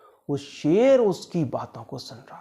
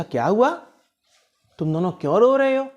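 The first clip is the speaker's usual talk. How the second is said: worried mother; 5 semitones higher, 3 dB louder, faster than usual. Acted. Mother finds children crying.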